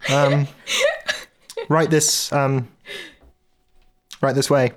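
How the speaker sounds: high, loud deadpan guard; a blank-staring guard speaking stiffly; odd guard Torpek. Acted. Torpek the head of security introduces himself to Binky, high and loud.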